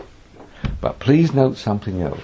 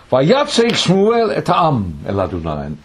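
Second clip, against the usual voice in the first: declaimed scripture; 5 semitones higher, 4 dB louder, slower than usual. Acted. Reading the Hebrew verse aloud.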